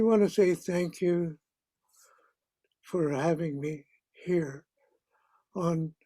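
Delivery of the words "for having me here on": near-whispered, falling thanks; trailing whisper of gratitude; soft whisper. Real, not acted. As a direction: let the thanks drop to a breathy whisper. Elder repeats thanks, fading.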